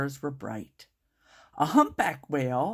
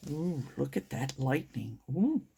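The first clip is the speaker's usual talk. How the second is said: mock scared; 2 semitones lower, 5 dB quieter than usual. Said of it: "that is scary".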